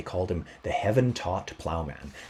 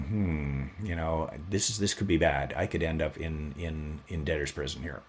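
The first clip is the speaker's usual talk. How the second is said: softer, lower, inward worried voice; worried muttering; 5 semitones lower, 6 dB quieter than usual. Retold or imitated. Robbie fretting to himself about debtor's prison, softer. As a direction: think it aloud, fretting quietly.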